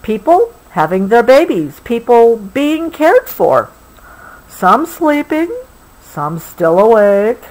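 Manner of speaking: gentle, unhurried storybook read; reading to a child. Acted. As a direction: soothe a child toward sleep with the story. Parent reads bedtime picture book.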